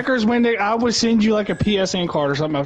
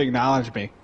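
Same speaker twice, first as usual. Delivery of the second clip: deep catchphrase voice; 8 semitones lower, 4 dB quieter than usual. Retold or imitated. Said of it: "you gotta say".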